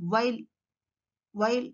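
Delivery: "వైల్" as while, lips pushed forward; "వైల్" with no teeth on the lip; W sound. Shown as a demonstration. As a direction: start "వైల్" with a rounded W. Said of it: "mouth goes forward".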